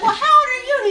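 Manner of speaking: high, loud pointed mock question; retold pointed ask. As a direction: ask it with suspicion.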